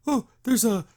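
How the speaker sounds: mock-jokey cartoon recital of dangers; joking exposition. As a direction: imitate characters lightly joking through exposition. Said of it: "like, in a joking way".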